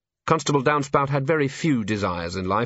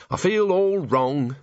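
higher, slow, mildly forlorn; sighed; 6 semitones higher, slower than usual. A narrator's reading. Cheery confiding in Angua, a slow mild lament. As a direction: draw it out with a touch of misery. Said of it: "sighed Cheery".

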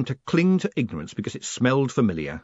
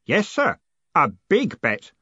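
higher, pleased confirmation; happy; 7 semitones higher, 5 dB louder, slower than usual. A narrator's reading. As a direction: confirm it with innocent delight. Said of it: "said Stanley happily".

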